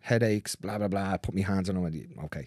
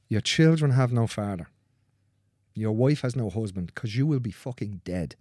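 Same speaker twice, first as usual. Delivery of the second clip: slow, deliberate and heavy; slow grave warning. Retold or imitated. Therapist warning a young dad who refuses surgery, slow and grave. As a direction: spell out the stakes slowly, word by word.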